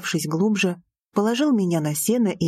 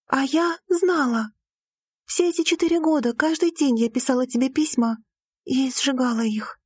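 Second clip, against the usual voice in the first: put-on a young woman's voice, lightly higher; Lira's voice; 5 semitones higher than usual. A narrator's reading. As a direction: voice the heroine, a touch higher. Lira's outpouring. (голос героини, чуть выше)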